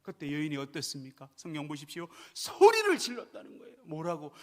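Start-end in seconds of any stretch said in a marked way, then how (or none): 2.3-3.7 raised voice. Real, not acted. Preacher builds to climax.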